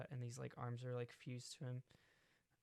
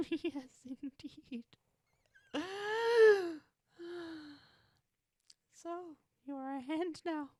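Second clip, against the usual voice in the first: much higher, gleeful sinister praise; cackling villain; 9 dB louder than usual. Acted. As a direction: praise Gold Cocaine with a cackle. Cackling hands continues.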